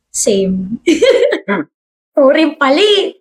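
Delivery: giggling apology; best friend laughing after confession. Acted.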